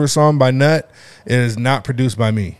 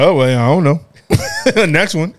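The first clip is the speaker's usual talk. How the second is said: mock game show host; 5 semitones higher, 6 dB louder, slower than usual. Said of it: "you just be like".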